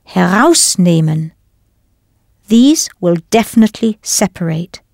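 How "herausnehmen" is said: Herausnehmen with the stress on HERAUS; stress on first part. Shown as a demonstration. Teacher showing the learners first-part stress.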